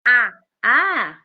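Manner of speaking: put-on child's clipped "a, a" for água, two short open vowels; mimicking her son's first attempt at água; imitating toddler's word. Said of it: "Água era".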